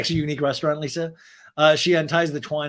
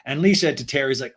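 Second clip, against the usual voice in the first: ordinary talk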